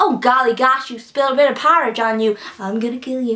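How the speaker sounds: grotesque, unhinged woman's voice. Retelling a book character's sudden switch to threats: imitating Annie. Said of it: "one minute she's like".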